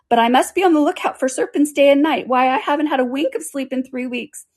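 high, put-upon complaint; aggrieved pigeon. A narrator's reading. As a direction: lament your troubles in a high bird voice.

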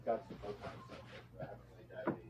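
distant, off-mic voice; speaking from across the room; far from mic. Real, not acted. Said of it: "It sounds like you're very far from the mic".

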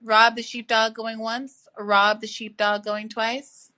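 slow, drawn-out auction call; auctioneer call. Pretend. Mock auction call for absent caller.

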